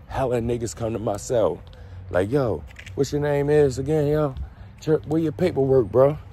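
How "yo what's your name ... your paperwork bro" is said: raised, pushy prison voice; mock tough inmate. Inmates grilling the new guy, higher and pushy. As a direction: demand his paperwork like a cell block tough.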